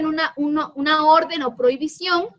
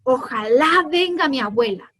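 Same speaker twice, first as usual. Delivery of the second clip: wishful. Shown as a demonstration. Teacher reading the wish sentence, wistful. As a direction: wish it with longing. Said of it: "como yo lo leo".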